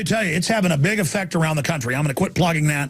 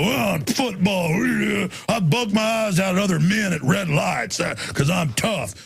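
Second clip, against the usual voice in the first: mock tough guy. Host mocking strutting men who act tough, swaggering. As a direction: sneer at a chest-puffing football bro. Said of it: "strut around and go".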